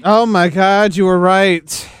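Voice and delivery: surprised. Real, not acted. Realizes friend was right.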